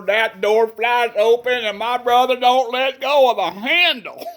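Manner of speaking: rising excited telling, laughing through it; excited, laughing build-up. Retold or imitated. To listeners, retelling the truck door flying open, laughing excitedly.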